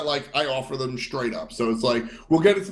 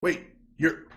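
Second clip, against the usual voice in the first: mock disbelief; 3 semitones higher, 4 dB louder than usual. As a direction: act out dawning, amused disbelief. Acts out surprise at nice player.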